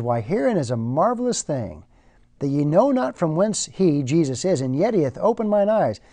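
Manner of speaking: a touch of irony, rising toward the end; healed man gently mocking his questioners; lightly wry, old-Bible wording; mildly sarcastic. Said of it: "somewhat sarcastically".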